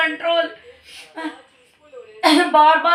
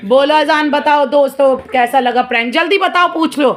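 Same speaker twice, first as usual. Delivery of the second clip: loud vlog outro; 5 dB louder than usual. Real, not acted. Loud vlog outro over noise.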